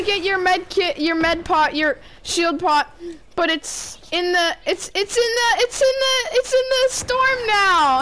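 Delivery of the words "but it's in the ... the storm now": rising from normal to high yelling; building panic. Real, not acted. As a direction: get more frantic each phrase. Rising panic about storm.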